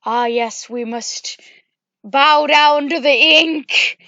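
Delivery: slow, drawn-out cultish reverence, hushed at first; Sammy the zealot. Acted. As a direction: worship the ink in a slow, strange voice. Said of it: "Sammy is all like".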